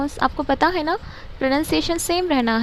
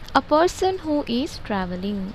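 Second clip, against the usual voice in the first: slow dictation; much slower than usual. Shown as a demonstration. Teacher reads definitions slowly.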